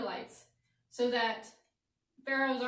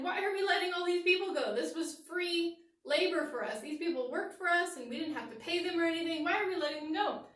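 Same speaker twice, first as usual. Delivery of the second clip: indignant Pharaoh; 5 semitones higher than usual. Acted. Pharaoh complaining, quoted in story.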